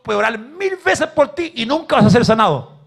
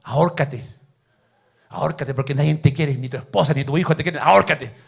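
devil's voice, lightly voiced; 5 semitones lower than usual. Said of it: "le dijo el diablo".

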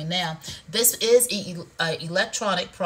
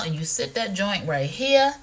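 ordinary talk

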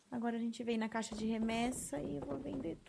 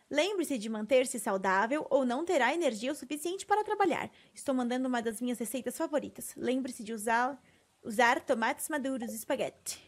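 animated letter reading; 3 dB louder than usual. Acted. Reads a game letter aloud.

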